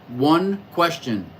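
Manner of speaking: ONE said slowly and firmly; "one question" said slow with weight on one; stress on one. Shown as a demonstration. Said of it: "But one question about your chart".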